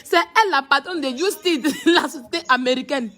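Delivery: mock her while cracking up; laughing mockery. Real, not acted. Mocking the boss, laughing. (moquerie lente entre les rires)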